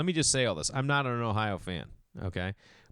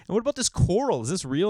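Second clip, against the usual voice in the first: amazed; 8 semitones higher, 4 dB louder, faster than usual. Retold or imitated. Awed customer asks about coral.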